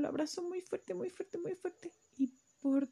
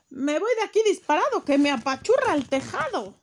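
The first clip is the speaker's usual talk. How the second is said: high, loud, fast yelp; fleeing cat; 5 semitones higher, 10 dB louder than usual. Acted. Battered cat fleeing, high, loud and fast. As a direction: cry out while running away.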